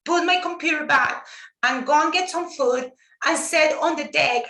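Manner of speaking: fighting tears while remembering her father; getting emotional. Real, not acted. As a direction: voice lifting with held-back emotion. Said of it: "I'm gonna get emotional".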